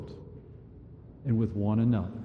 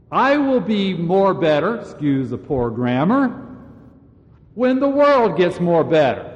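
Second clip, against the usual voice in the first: mock self-excuse; 5 semitones higher, 4 dB louder than usual. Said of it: "this is how I'm thinking".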